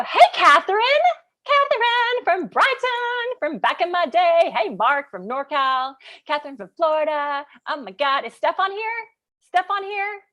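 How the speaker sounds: high, singsong hellos with held endings; excited shout-outs. Real, not acted. Host greeting viewers joining live, excited singsong calling. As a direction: sing out names to greet them.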